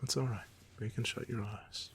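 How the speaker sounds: soft, gentle reassuring murmur; tender reassurance. Acted. Villain lets the tired hero doze during a back rub, tenderly reassuring. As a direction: soothe them softly towards sleep. Soothing date partner to sleep.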